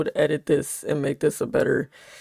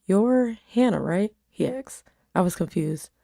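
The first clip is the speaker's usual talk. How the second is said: even storytelling read; story narration. A narrator's reading. Reading her story aloud.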